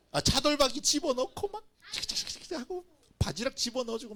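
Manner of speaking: can't hold back the laugh; 웃으며 말하기; laughing while talking. Real, not acted.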